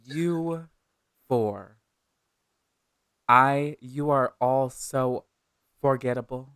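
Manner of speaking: slow, scornful villain speech; villain monologue. Acted. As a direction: sneer it out, savoring each word. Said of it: "Now I have to give a villain monologue".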